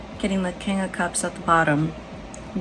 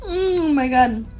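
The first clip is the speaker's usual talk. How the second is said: laughing; 5 semitones higher, 5 dB louder than usual. Real, not acted. Still laughing.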